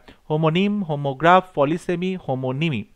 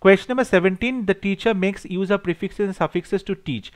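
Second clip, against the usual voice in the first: reads the exam question slowly and deliberately; dictating each English word clearly to the class; slow question reading; 3 semitones higher, much slower than usual. Acted. Teacher reading a multiple choice question to students, slow and deliberate.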